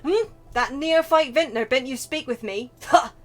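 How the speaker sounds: indignant, forceful connoisseur in a put-on accent; theatrical disdain in a put-on accent; haughty wine snob. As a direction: rant like an affronted vintner. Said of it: "I didn't mean to do this accent".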